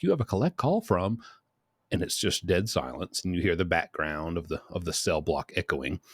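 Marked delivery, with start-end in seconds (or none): 0.0-1.2 slightly higher robotic recording; automated phone voice. Retold or imitated. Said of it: "So it's like".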